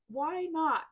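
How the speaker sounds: high, loud, drawn-out tipsy question; drunken slur. Acted. Reader acts out drunk Tony at a party, mock slur. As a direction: imitate a slurring party guy. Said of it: "then would slur out".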